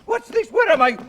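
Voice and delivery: high, loud, addled traveller; dazed astronaut. Acted. Stalling the rival in the dark, a high mad voice. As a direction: play the madman fallen from the sky.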